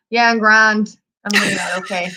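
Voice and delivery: "Yeah, I'm grand" dropped low and heavy, clearly not fine; low, downbeat "grand" that means not okay; not really grand. Shown as a demonstration. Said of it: "it depends how you say it".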